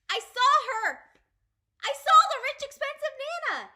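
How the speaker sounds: gasping, high and loud; excited gasp. Acted. Child spotting the rich Nana, gasping out loud. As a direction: burst out in amazement.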